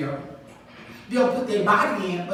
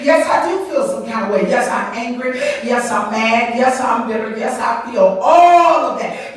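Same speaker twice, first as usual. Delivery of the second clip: louder, defiant admission; mock defiant; 6 dB louder than usual. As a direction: own it like a bitter woman. Voicing bitter women.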